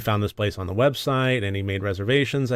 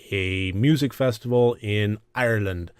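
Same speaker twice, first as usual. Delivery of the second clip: put-on a clumsy, half-hearted stab at an Irish accent; lightly attempted Irish accent; bad Irish accent. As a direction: put on a poor Irish lilt, then give up. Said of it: "That was a terrible accent".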